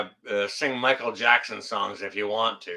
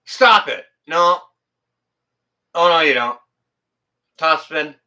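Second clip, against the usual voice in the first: mock scolding; 2 semitones higher, 8 dB louder than usual. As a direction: scold sharply, as to a misbehaving pet.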